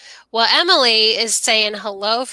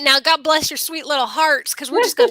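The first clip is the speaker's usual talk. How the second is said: 1 Southern twang. Pretend. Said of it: "say that with a Southern twang".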